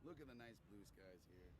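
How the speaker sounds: mumbling past a cigarette; cigarette in mouth. Real, not acted. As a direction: speak with a cigarette between lips. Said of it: "I have a cigarette in my mouth".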